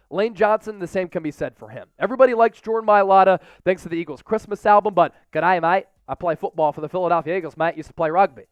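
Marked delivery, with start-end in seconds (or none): 5.3-8.4 a light Australian accent, imitating a friendly lineman; chirpy Australian accent impression, G'day mate style; Aussie accent. Host imitating the lineman from the Christmas album in an Australian accent. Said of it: "everybody loves that Aussie accent".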